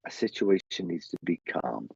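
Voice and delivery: calm, measured voice of a spirit man. Retold or imitated. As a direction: settle things down, evenly and unhurried. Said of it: "and he's calming down".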